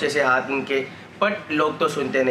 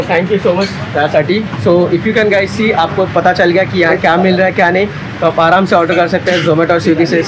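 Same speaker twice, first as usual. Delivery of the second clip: muffled behind mask; speaking through respirator; through a face mask; 3 semitones higher, 10 dB louder than usual. Real, not acted. Seen 3: Speaker in checked shirt wears white N95 mask throughout talk.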